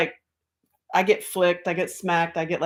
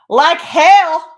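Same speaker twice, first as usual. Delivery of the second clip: loud, high mock protest; outraged rebel retort, retold; indignant refusal; 8 semitones higher, 8 dB louder than usual. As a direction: holler back in hammed-up objection, speeding up. Retelling her refusal to be teacher.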